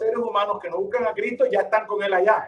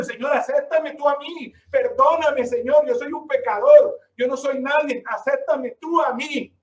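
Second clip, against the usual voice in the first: humble pleading prayer; 5 semitones higher than usual. Shown as a demonstration. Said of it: "Por el contrario".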